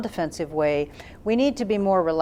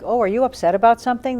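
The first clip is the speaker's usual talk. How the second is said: concerned frowning question; 5 semitones higher, 4 dB louder, faster than usual. Shown as a demonstration. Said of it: "they were frowning and shaking their head".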